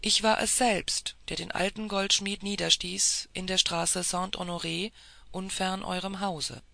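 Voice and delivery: firm, weighty confession; emphatic admission; with emphasis. A narrator's reading. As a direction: lean into each word. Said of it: "mit Nachdruck".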